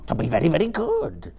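high, fawning creature voice; eager Gollum. A narrator's reading. Gollum groveling to Frodo, fawning high voice. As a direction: promise it like a groveling pet. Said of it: "said Gollum".

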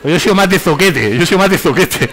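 laughing as you joke; amused, laughing. Real, not acted. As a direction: chuckle through your own joke. Jokes about insults, laughter heard. (diciéndolo entre risas)

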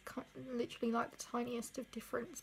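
hands over mouth; muffled behind fingers; speaking through hands. Real, not acted. Seen 2: Fingertips held touching in front of lips while speaking.

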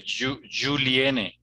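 "Juliene" with a voiced J, slowly; Portuguese J. Shown as a demonstration. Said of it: "como si fuera en portugués".

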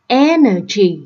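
"energy" stressed on EN; first-syllable stress. Shown as a demonstration. Teacher showing word stress to students, first-syllable stress. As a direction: lean on EN in "energy". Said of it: "âm thứ nhất luôn".

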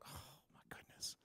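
breathless hushed oh my goodness; a gasped, hushed aside; shocked whisper. Retold or imitated. Stunned on arriving at a crash.

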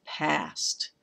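"past" set alone after a pause; single stressed foot. Shown as a demonstration. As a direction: give "past" its own beat. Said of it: "It's a single stressed foot".

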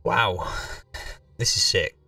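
usual speaking voice

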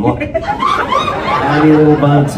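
normal talking voice

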